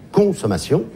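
"consommation" with CON clearly marked; stress on first syllable. Shown as a demonstration. Comedian showing what is in the word consommation, first syllable stressed. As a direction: lean on the opening con of "consommation". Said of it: "La première syllabe est quand même très claire".

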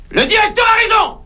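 high, loud order to get back to work; bossy shout. Acted. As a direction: yell at the whole bank like a foreman. Robber, now boss, shouts orders.

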